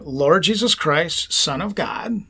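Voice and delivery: slow prayer, fading to whisper; slow breath prayer. Shown as a demonstration.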